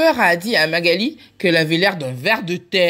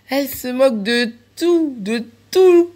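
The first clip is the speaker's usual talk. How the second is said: mocking glee; 6 semitones higher, 4 dB louder than usual. Mocking friends in the story.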